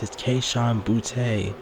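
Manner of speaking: Kayshon Boutte, slow, with the stress leaned on Boutte; It's Kayshon Boutte, drawn out and stressed on the last name; emphasis on Boutte. Shown as a demonstration. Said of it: "I'm putting an emphasis on it".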